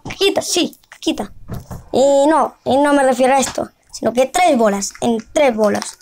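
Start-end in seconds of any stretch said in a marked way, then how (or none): 0.1-0.8 caquita said high and bright with glee; gleeful caquita. Real, not acted. Kid repeats the silly word. 0.9-1.3 quiet echo. Real, not acted. Kid repeats the silly word.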